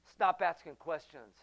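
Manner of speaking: loud, slow, clipped command; stern doctor silencing questions; curt order. Retold or imitated. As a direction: bark it out like an irritated doctor. Doctor snapping at worried father.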